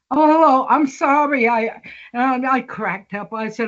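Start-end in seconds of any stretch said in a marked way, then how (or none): 0.1-1.5 higher and louder, an eager hello and sorry; eager apologetic greeting. Retold or imitated. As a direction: rush to apologize right away, mock-imitating Claude. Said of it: "Claude's like".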